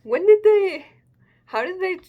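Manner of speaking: high and loud sudden puzzlement; excited question. Real, not acted. Reader puzzling over the timeline, high and excited. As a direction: blurt out the confusion. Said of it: "I'm just curious".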